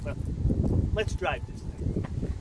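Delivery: put-on soft, slow, half-whispered "let's drive this thing" in the folksy trucker accent; in character. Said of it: "I broke character".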